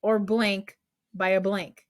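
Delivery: slow, measured rule with blanks; recited rule. Shown as a demonstration. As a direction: recite it slowly, leaving room for each blank. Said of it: "gotta say it like we said it".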